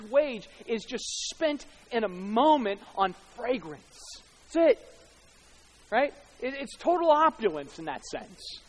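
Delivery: marvelling from the pulpit with punched key words; impassioned preaching. Real, not acted. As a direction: preach the extravagance of the moment. Preaches at full force.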